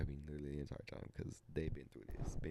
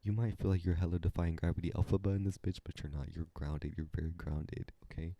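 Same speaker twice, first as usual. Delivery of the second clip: reassuring. Retold or imitated. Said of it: "fruit snacks eating one oh one".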